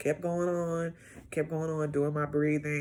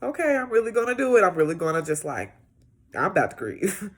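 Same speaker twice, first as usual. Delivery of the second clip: resolved; 4 semitones higher, 4 dB louder, faster than usual. Retold or imitated. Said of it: "permission to be like".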